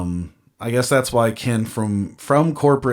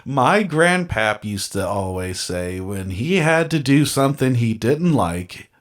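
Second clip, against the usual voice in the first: robotic reading. Shown as a demonstration. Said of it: "I read that like a robot".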